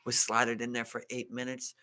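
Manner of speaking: put-on low, soft Italian-accented pitch about the pizza; lightly imitated Italian waiter, unhurried and proud. Waiter bragging about the oven to diners, soft Italian accent. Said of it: "all in, like, an Italian accent".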